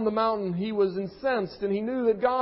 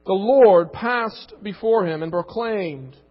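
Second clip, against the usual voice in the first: scripture reading; 4 dB louder than usual. Real, not acted. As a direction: read it like a weighty proclamation. Reads scripture aloud.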